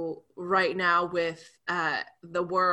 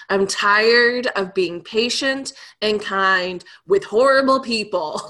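emotional outburst; 6 dB louder than usual. Retold or imitated. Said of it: "broke down".

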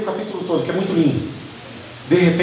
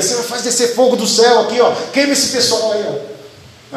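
mock zealous disciples; 5 semitones higher than usual. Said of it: "Quando tava em Samaria".

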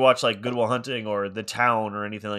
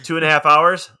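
higher and louder, playing the wife's disbelief; wife groaning at the movie's length; mock-incredulous wife; 7 semitones higher, 9 dB louder than usual. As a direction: ham up her dread of the long movie. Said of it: "like, is like".

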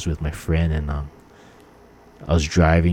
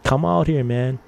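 mock yell, pitched up; retold yelling; 5 semitones higher than usual. Driver challenging the man in his house, retold yell. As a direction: re-enact calling someone out, half-raised voice. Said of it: "I was, like, yelling at him".

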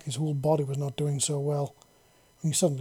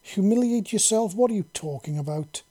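high, loud puzzled echo; baffled and insisting; confused demand; 5 semitones higher, 4 dB louder than usual. A narrator's reading. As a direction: commander baffled by his reply. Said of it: "she demanded".

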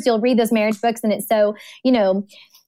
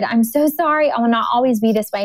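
retold apology; 2 semitones higher than usual. Weeping wife apologizing to her husband, retold with mild distress. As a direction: apologize in a raised, quicker voice, lightly acted.

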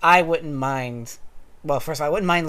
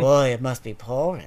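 throaty sexy voice; 2 semitones lower, 3 dB louder than usual. Retold or imitated. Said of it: "in a very throaty, sexy voice".

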